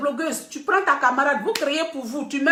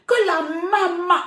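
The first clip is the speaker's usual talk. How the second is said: mock surprise build-up; 7 semitones higher, 4 dB louder, slower than usual. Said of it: "c'est ta joie que tu manifestes comme ça".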